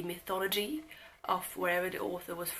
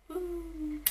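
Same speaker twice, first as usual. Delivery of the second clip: little "woo"; 10 semitones higher than usual. Real, not acted. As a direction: give a small high-pitched cheer. Cheering the total of a hundred.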